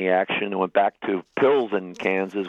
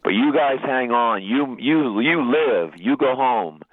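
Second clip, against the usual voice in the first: higher, emphatic quoted exhortation; retold urging; 4 semitones higher, slower than usual. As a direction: gently urge the men on, stressing each "you". Priest's parting words to his men.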